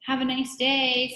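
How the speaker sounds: lightly voiced girl, high and loud; Kathy. A narrator's reading. Teacher fakes a girl's goodbye to visitor, high girlish voice. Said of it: "said Kathy's voice".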